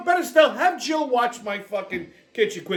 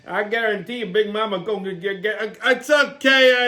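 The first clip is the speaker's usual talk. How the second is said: Big Mama. Acted. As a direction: purr it like a flirty auntie.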